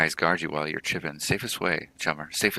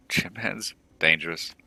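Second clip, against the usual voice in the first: incredulous echo; 2 semitones higher, 3 dB louder than usual. Acted. Echoing the NPC in disbelief.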